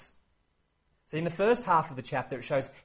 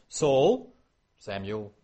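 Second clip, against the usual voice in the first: back and forth; 4 semitones lower, much slower than usual. Shown as a demonstration. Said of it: "back and forth like that".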